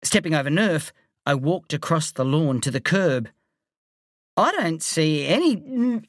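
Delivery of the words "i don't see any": high, slow line collapsing into coughing and gagging; breaking into choking. A narrator's reading. Boy at the curb hit by a smell, choking. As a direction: start searching, then choke and retch on a stench. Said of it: "coughing and choking".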